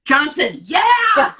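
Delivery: excited shout. Real, not acted. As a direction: blurt the name out as it comes back. Suddenly remembers the name.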